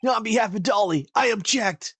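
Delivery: high hammed-up courtroom cry; overacted character voice. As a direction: shout it like an anime lawyer. Voicing game character objection.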